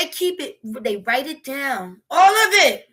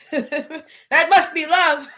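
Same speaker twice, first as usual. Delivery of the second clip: sarcastic drawl; 3 dB louder, much slower than usual. Acted. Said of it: "sarcastic drawn-out".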